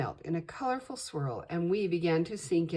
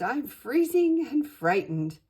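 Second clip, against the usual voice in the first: frightened; 8 semitones higher, 7 dB louder than usual. Acted. Cold scared genie.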